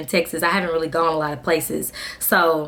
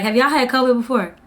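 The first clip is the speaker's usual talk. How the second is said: exasperated; 5 semitones higher than usual. Retold or imitated. Exasperated with family advice.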